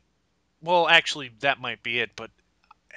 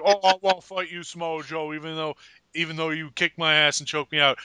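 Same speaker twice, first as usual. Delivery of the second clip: put-on New York accent; 3 semitones lower, 4 dB quieter than usual. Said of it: "I'm doing a New York accent".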